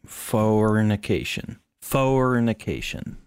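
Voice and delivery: Fornication slurred slowly, Southern drawl; drunken Southern drawl. Pretend. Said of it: "You sound like a, uh, drunken Southernman".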